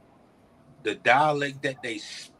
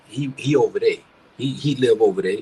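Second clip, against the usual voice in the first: Savannah dialect; 2 semitones lower, 4 dB louder, faster than usual. Retold or imitated. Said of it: "They say".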